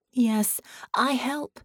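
a broken creature keen to help; eager ship voice. A narrator's reading. Dying ship eagerly agreeing to help Sarah and John. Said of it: "the ship replied eagerly".

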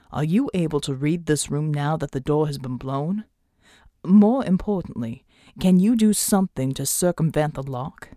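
slightly low character voice, measured; a hint of a composed team leader; lightly voiced Pride. A narrator's reading.

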